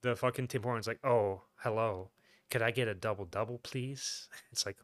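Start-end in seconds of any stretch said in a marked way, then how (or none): 1.1-4.3 mock-sultry coffee order; fake sexy voice. Customer ordering at Tim Hortons, fake sexy voice. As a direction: seduce the cashier as a joke, lightly put on. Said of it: "fake sexy voice".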